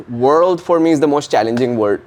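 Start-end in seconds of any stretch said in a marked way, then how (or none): 0.1-0.6 slow American accent, rounded R in "world". Shown as a demonstration. Actor explains the hardest entry word, American accent. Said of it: "in the American".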